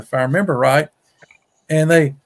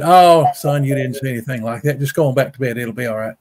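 soothing parent; 4 semitones lower than usual. Retold or imitated. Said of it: "they would have said".

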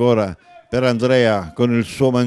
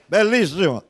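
shouted; 6 semitones higher than usual. Real, not acted. Shouted take of the word.

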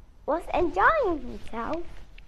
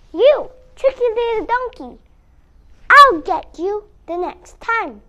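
loud angry threat; furious wolf, loud; angry shout; 6 semitones higher, 10 dB louder than usual. Acted. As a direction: shout it after the fleeing donkey. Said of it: "shouted the poor wolf angrily".

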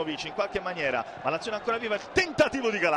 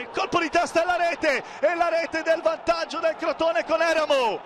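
breathless italian goal commentary; 3 semitones higher than usual. Real, not acted. Goal scored, commentator erupts.

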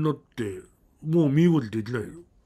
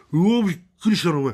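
fast, louder cry of shock; waking up in fright and shouting at his roommate; startled outburst; 3 semitones higher, 5 dB louder, much faster than usual. Retold or imitated. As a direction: blurt it out, still jolted. Both jolt awake in fright.

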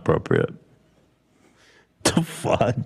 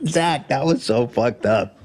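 laughing. Real, not acted. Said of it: "That's why I'm laughing".

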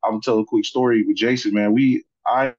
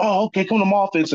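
coach voice; 9 semitones higher, faster than usual. Retold or imitated. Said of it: "sports coaching voice".

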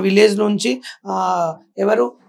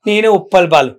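hero dialogue; 5 semitones higher, 5 dB louder than usual. Shown as a demonstration. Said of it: "మళ్ళీ చెప్పు".

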